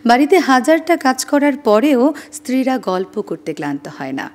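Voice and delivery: measured, expressive reading aloud; unhurried expressive reading; reading own writing. Shown as a demonstration. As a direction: read your piece warmly to listeners. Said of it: "আপনাদের একটু পড়ে শোনাচ্ছি".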